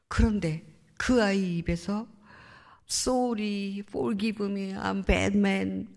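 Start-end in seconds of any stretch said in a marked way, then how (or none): 2.9-5.9 mildly imitated wailing apology, drawn out at the end; retold tearful plea. Son confessing he is a bad man, imitated tearful plea. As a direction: echo his crying confession, understated. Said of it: "이 소리를 정말 그렇게 목을 놓아 울면서".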